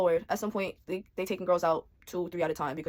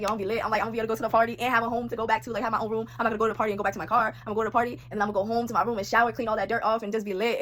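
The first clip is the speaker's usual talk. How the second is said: excited; 3 semitones higher, faster than usual. Retold or imitated. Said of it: "I was like".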